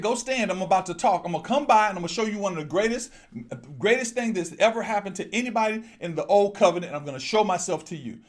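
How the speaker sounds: God announcing Himself to the prophet. Acted. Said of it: "He said".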